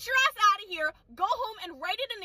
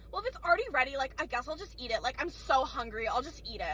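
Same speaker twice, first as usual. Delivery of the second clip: lower, softer sulky mock customer voice; 7 semitones lower, 4 dB quieter than usual. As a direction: pout it out like a grumbling diner. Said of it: "She's like".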